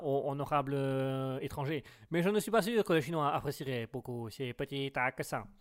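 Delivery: rotten mock Chinese accent; mauvais accent chinois. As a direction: put on a clumsy Chinese accent. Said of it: "c'est un accent pourri". (accent chinois pourri)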